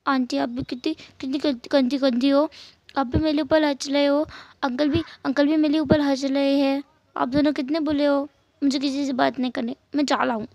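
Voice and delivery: lightly voiced pouting child; a small boy sulking at aunt and uncle; sulky little boy. Narrator voices little boy Jingi. (हल्की सी रूठे बच्चे की आवाज़)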